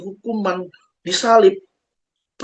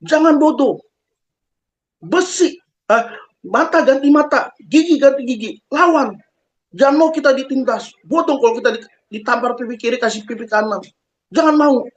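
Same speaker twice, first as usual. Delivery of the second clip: raised-pitch, combative imitation of a TV preacher; mock militant advice, higher and emphatic; Mama Dede; 5 semitones higher than usual. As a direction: fire back a scolding call to fight, pitched up. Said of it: "Mama Dede langsung bilang gini".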